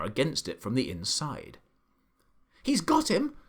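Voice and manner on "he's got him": much higher triumphant cry; excited cry. A narrator's reading. The monkey seeing the burglar caught, crying out high. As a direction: shriek with triumph. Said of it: "cried the monkey".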